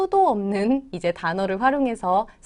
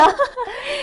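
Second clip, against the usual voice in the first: laugh; 4 dB louder than usual. Real, not acted. Two teachers greeting each other, sudden high laugh.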